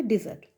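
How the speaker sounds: ডেজার্ট pronounced di-ZERT; first-syllable "di". Shown as a demonstration. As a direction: say ডেজার্ট starting with "di". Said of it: "প্রনাউন্সিয়েশনটা হবে".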